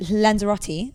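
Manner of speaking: Lanzarote the British way, ending in "tee"; anglicised Lanzarote; British pronunciation. Shown as a demonstration. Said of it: "as the British say".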